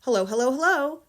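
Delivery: high, loud parrot call; parrot's greeting from up the chimney. Acted. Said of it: "a voice came loud and clear".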